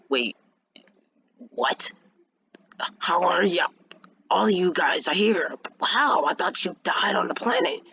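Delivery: high, whispery disbelief; astonished. Acted. Seeing his whole family alive, astonished.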